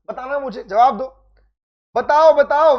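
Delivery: loud call for answers; urging the class. Real, not acted. Teacher calling out to online students for answers, loud. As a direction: push the students to reply now.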